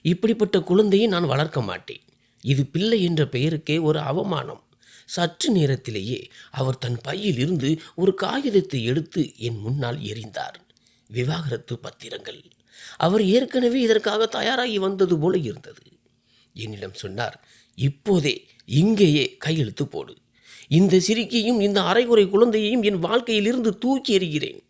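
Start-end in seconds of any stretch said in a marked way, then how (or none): 0.1-4.6 mild angry shout. Acted. Husband refusing the baby to his wife, a mild angry shout. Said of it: "அவர் கத்தினார்". 17.8-24.6 higher and louder, commanding furious yell; angry shouting. Acted. Husband demanding his wife sign the divorce papers, shouting. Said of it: "என்று கத்தினார்".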